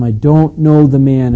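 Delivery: loud, slow, emphatic denial; sworn denial. Retold or imitated. Peter swearing to his accusers, loud emphatic denial. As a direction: swear it slowly and forcefully. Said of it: "and he swore to them".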